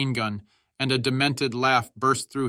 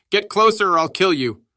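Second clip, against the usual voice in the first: high, loud threatening yell; fierce, desperate battlefield threat; shouted threat; 7 semitones higher, 7 dB louder than usual. A narrator's reading. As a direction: shout it as a furious ultimatum. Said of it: "Hal shouted".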